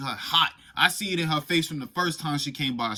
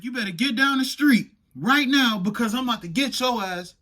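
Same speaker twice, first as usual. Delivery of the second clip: 1 angry mom threat; 8 semitones higher, 4 dB louder than usual. Retold or imitated. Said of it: "she was like".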